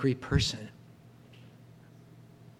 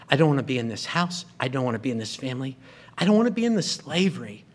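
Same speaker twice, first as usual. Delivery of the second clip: mock angry brother; faster than usual. Preacher voices sulking angry brother.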